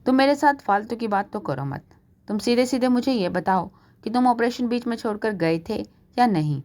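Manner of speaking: mild angry demand, pressing for a straight answer. Acted. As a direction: confront the husband, a touch of anger. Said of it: "कविता गुस्से में कहती है".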